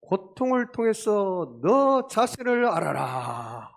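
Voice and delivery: loud, high, slow proclamation; acted sage pronouncement. Socrates to sinking man, loud lofty proclaiming. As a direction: declaim it grandly, stretching the words. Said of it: "사람이 뭐라고 했냐면".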